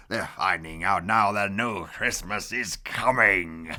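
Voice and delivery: lightly voiced gloating Grinch, with a laugh; a hint of a smug villain savouring it. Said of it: "Hoo-hoo to the Who's".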